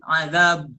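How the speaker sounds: azab, lips rounded at the stop; ismam. Shown as a demonstration. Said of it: "mulut kita dimuncungkan". (azab dengan ismam)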